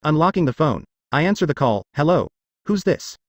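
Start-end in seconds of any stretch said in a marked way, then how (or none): 1.9-3.2 slow, just-woken groggy voice. A narrator's reading. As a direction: mumble it half asleep. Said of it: "Hearing my groggy voice".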